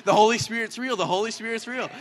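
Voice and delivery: loud insistent cry that eases on the repeat; retold shouting. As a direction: hammer it home, then let it drop a little. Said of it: "shouting at this kid".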